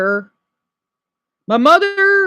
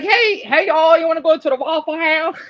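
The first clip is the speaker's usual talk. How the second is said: mock Southern drawl; 4 semitones higher than usual.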